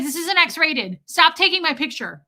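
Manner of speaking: high, urgent plea to stop; panicked protest. Retold or imitated. Embarrassed woman pleads with passengers filming her, high and flustered. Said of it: "I was like".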